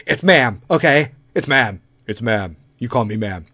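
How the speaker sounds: a mock firm correction; insisting woman. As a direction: insist on being called ma'am. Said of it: "my voice dropped for the lady".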